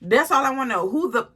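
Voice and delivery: heated demand. Retold or imitated. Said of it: "So I'm going off on her".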